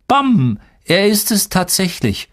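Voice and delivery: put-on high-pitched, grinning little boy; grinsender kleiner Junge. A narrator's reading. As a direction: crow it gleefully as a small boy. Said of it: "grinste der kleine Joschka". (grinsend, hohe Kleinjungenstimme)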